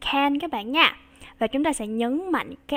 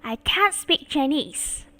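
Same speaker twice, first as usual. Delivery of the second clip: quicker take, "can't" still stressed; faster read; 2 semitones higher, slower than usual. Shown as a demonstration. Teacher repeating for class, faster. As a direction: speed it up a little. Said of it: "Đọc nhanh hơn nha".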